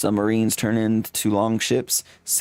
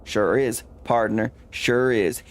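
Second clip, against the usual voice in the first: put-on cowboy accent; slower than usual. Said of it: "Gabby doesn't talk like that".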